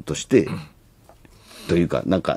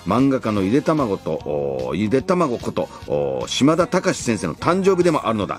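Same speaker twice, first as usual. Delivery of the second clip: trailer narration; 2 semitones higher than usual. Acted. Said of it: "予告ナレーションが流れていました".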